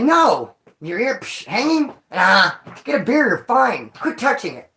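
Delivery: dismissive. Retold or imitated. Friends brushing it off.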